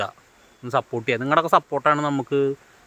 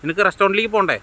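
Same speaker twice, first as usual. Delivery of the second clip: mother scolding her son, mock angry; retold angry scolding; 5 semitones higher, faster than usual. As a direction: bark at the son, imitating her. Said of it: "ശ്രീകാന്തിനോട് ദേഷ്യപ്പെടുന്നുണ്ട്".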